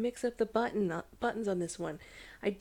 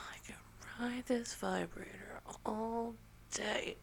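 whispering; 6 dB quieter than usual. Real, not acted.

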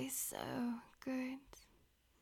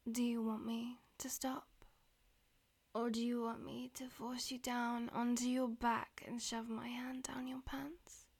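whispering; 2 semitones lower than usual. Acted. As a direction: whisper it close to the ear. Whispered throughout.

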